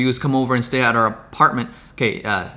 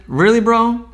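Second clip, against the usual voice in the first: incredulous; 8 semitones higher, 5 dB louder, slower than usual. Real, not acted. Incredulous at channel claim.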